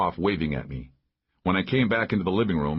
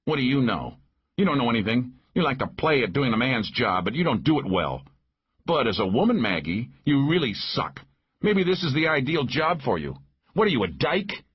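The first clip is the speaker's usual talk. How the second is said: raised-pitch quarrelsome jeer; lightly voiced taunting man; 5 semitones higher than usual. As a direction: needle her with mild scorn. Narrator voices Paul taunting Maggie in quarrel.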